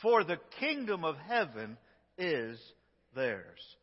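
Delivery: slow it right down so each word lands; very slow emphatic reading. Shown as a demonstration. Pastor leading the congregation's reading, very slow and emphatic. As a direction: read every word very slowly, leaning on each one. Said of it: "go very slow so that we can emphasize".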